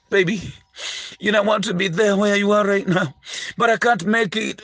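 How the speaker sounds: a hint of a lovesick boyfriend on the phone; mock-tender boyfriend, barely put on; lightly voiced pleading boyfriend. Preacher mimics a boyfriend calling his girlfriend, lightly pleading.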